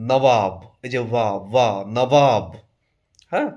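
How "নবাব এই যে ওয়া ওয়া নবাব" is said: slow নবাব as "na-waab", the "waa" isolated; W sound for ব. Shown as a demonstration. Teacher isolates the sound for learners, নবাব slowly with a W. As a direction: draw out the W in নবাব. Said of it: "একটা ব ডব্লিউ দিয়ে উচ্চারণ".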